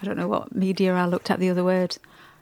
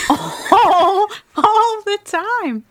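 much higher, slow "all the time"; drawn out; 10 semitones higher, 4 dB louder, much slower than usual. Real, not acted. Complaining to her partner about his sniffing, drawn out.

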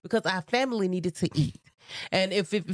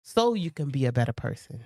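soft prayer; 4 semitones lower than usual. Acted. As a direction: pray it quietly, humbly. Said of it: "asking God to".

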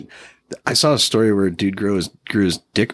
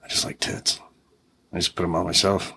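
creepy perv voice; 3 semitones lower, 6 dB quieter than usual. Retold or imitated. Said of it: "a creepy old perv man out there that's like".

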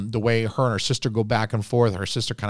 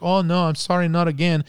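light imitation of a Hispanic accent, pitched higher; Hispanic maid accent; 7 semitones higher than usual. Reviewer imitating the film's maid, light Hispanic accent. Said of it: "You can hear her accent".

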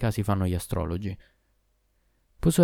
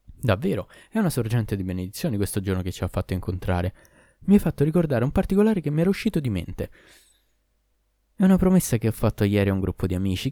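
exclaiming. Acted. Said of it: "il parrucchiere esclamò".

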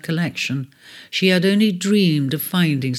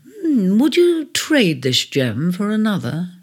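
tentative; 4 semitones higher than usual. Acted. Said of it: "she asked tentatively".

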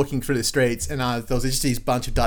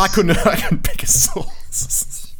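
whispering; 7 semitones higher, 4 dB louder, much slower than usual. Real, not acted. Mock-conceding jab, whispered laughing.

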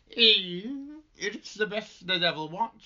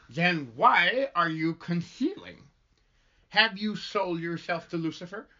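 lisp. Acted. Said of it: "one side of my mouth".

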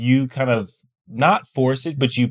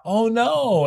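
high, drawn-out sympathetic coo; acted sympathy; 10 semitones higher than usual. Husband shows how he would react before hugging, sympathetic. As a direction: console them with a high-pitched voice. Acts out comforting before a hug.

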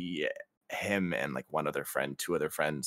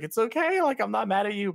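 mom soothing; 13 semitones higher, 5 dB louder than usual. Retold or imitated. Mom soothing son while laughing.

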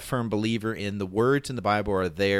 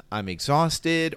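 exhausted sigh; 5 semitones higher, slower than usual. Shown as a demonstration. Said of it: "deep sigh is almost always".

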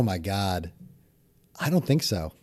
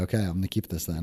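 raspy, lowered voice; smoker's rasp; 6 semitones lower, 9 dB quieter than usual. Pretend. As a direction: keep the rasp in it on purpose. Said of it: "make my voice raspy".

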